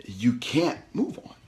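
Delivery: slow whispered warning. Real, not acted. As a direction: drop to a slow whisper to drive it home. Hushed emphasis after pause.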